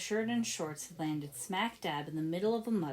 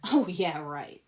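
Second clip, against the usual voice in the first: scoffing; 6 dB louder, slower than usual. Acted. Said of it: "Nia scoffed".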